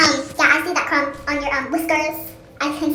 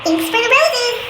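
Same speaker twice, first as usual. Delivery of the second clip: high character voice; 8 semitones higher than usual. Acted.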